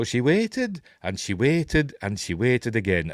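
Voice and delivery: lilting Irish storyteller, lightly done; a touch of Irish granny telling a tale; Irish accent. Acted. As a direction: slip into a mild Irish accent. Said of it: "I'm saying it in an Irish accent".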